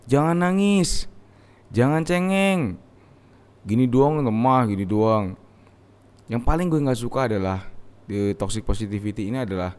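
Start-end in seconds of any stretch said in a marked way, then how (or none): 0.0-5.3 slow, lightly voiced stern parent; a hint of an old-school parent scolding a crying child. Parent telling a crying child to toughen up, mild mock scolding. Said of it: "orang tua ... didiknya".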